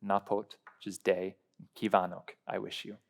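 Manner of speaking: slow, word by word; each word of Jó napot kívánok said slowly and separately; over enunciating. Shown as a demonstration. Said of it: "I'll say it slower".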